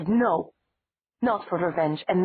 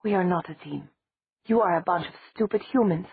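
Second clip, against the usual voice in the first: furious tirade; 3 semitones higher than usual. Acted.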